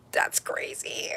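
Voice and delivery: slow, breathless whisper of awe; awed whisper. Real, not acted. Staring at the glitter gel, a slow awed whisper. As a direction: whisper it slowly, stunned.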